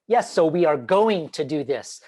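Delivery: "going to" spelled out carefully, every word clear; over-enunciate each word; crisp careful enunciation; enunciated. Shown as a demonstration. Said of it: "over enunciate".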